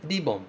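"Ribbon," with a tapped R; Japanese ribbon. Shown as a demonstration. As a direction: model "Ribbon," as ri-bon with a flap. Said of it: "esse ri do começo". ("Ribbon" com R batido)

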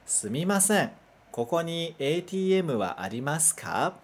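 careful Japanese pronunciation of "Sumimasen, koko ni A T M wa arimasu ka?", each syllable clear; teacher models "Sumimasen, koko ni A T M wa arimasu ka?" for students to repeat; slow Japanese model phrase. Shown as a demonstration. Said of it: "Mais uma vez".

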